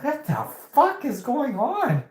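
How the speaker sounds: high, slow, bewildered mock wail; retold distress. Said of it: "I was in distress".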